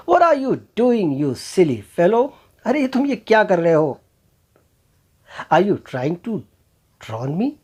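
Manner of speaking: jackal yelling in alarm at the camel; frightened jackal. Acted. Jackal, scared of drowning, yelling at the camel in alarm.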